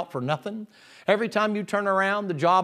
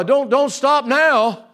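loud, high, drawn-out mock plea; stretched-out, hammed-up begging; worked-up pleading; 6 semitones higher, 6 dB louder, much slower than usual. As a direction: act out an overexcited king begging, slowly and loudly. King worked up, begging dancer.

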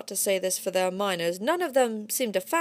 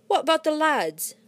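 asking; 7 semitones higher, 4 dB louder than usual. A narrator's reading. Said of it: "asked someone".

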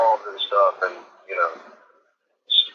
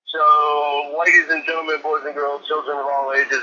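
higher circus-style announcer intro; ringmaster; 3 semitones higher than usual. Pretend. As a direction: call it out like a big-top ringmaster. Opening the show like an announcer.

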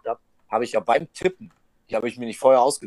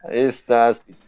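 loud, exasperated; loud groan; 6 dB louder, slower than usual. Real, not acted. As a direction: call it out loud. Repeats it loud.

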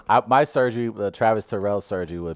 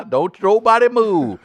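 slow, high, loud command; frantic shouting hostage taker; 14 semitones higher, 8 dB louder than usual. Retold or imitated. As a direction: order everyone to freeze. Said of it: "the proper reaction".

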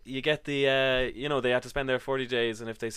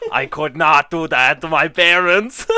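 loud, slow imitated Asian accent; hammed-up protest in a mock Asian accent; 2 semitones higher, 9 dB louder than usual. Date objecting about her parents, loud mock Asian accent. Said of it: "imagine an Asian person saying".

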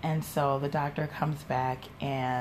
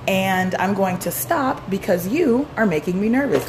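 louder, higher imitation of a fed-up student; mock flustered refusal; 4 semitones higher, 6 dB louder than usual. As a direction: act out an emphatic announcement of quitting. Retelling a flustered student quitting.

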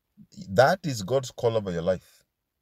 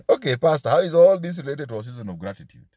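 mock congregant; 5 dB louder, faster than usual. Mock congregant questioning the pastor.

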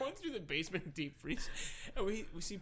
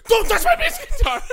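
loud high laughing shout, stress on my; possessive yell; 18 dB louder than usual. Retold or imitated. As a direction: shout it like a teen guarding his treasure. Teen guarding his guitar.

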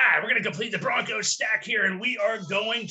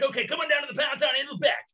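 game show host; 5 semitones higher, faster than usual. Pretend. Game show announcer call.

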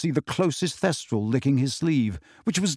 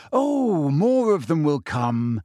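slow, breezy certainty; confident; 2 semitones higher, slower than usual. A narrator's reading. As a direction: reassure them airily, fully confident. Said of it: "said Ginny confidently".

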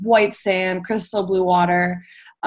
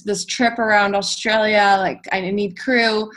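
imitating Australian accent; 3 semitones higher than usual. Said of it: "like, thick Australian accent".

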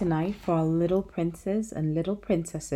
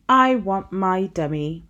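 put-on slow, loud demanding child; bossy little princess; 6 dB louder than usual. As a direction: plead slowly like a spoiled girl. Princess wants her dummy again.

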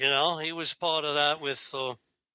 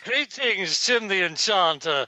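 King Arthur greeting; 3 semitones higher, 3 dB louder than usual. Retold or imitated. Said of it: "Monty Python and the Holy Grail".

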